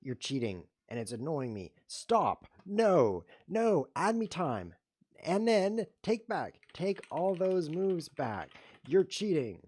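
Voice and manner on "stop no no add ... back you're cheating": high, loud frantic protest; outraged yelling. Real, not acted. Losing on the clock, yelling at the cheater. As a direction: yell it out as time runs short.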